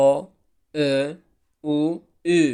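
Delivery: О, Ө, У, Ү each clipped apart by pauses; vowel demo. Shown as a demonstration. Teacher sounds Turkish vowels for the class. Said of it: "Хоб, ҳарфҳои".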